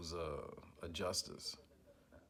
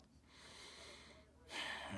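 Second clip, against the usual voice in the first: long frustrated sigh; 8 dB quieter than usual. Real, not acted. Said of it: "I gotta rein myself in".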